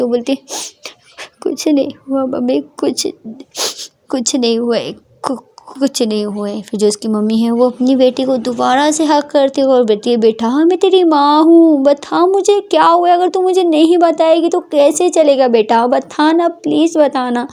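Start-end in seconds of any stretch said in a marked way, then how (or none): 1.4-6.6 put-on softer, halting, choked-up girl; hiding her tears, fading out; tearful denial. Daughter wipes tears and tells mother it's nothing, soft and choked. 10.2-17.5 tender pleading mother. Acted.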